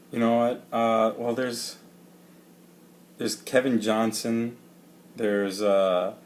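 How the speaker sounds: slight lisp from rubber bands. Real, not acted. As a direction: talk with rubber bands in mouth. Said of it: "I have rubber bands in my mouth".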